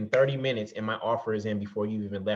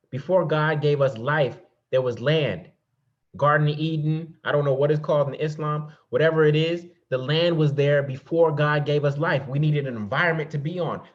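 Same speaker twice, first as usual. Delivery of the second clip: higher, louder sermon-like proclamation; emphatic preaching; 4 semitones higher, 6 dB louder than usual. Real, not acted. Speaker teaching that land was God's first gift, emphatic preaching. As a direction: drive each phrase home like a preacher.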